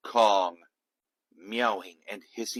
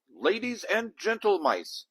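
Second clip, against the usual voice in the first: high, louder squeaky greeting to the crowd; squeaky showman; 10 semitones higher, 4 dB louder than usual. A narrator's reading. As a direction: squeak it out like a mouse ringmaster. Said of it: "he squeaked".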